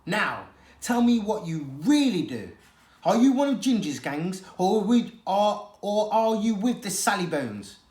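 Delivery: gruff stray cat lecturing; a hard, streetwise cat; tough street cat. A narrator's reading.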